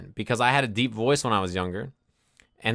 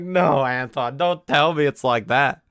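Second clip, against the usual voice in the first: incredulous plea; 2 semitones higher, slower than usual. Retold or imitated. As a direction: beg him not to mean it. Friend admits not knowing recoil.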